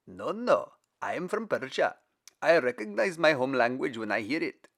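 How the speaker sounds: insistent Persian; insisting. Acted. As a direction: insist you know your language. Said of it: "insisted a third".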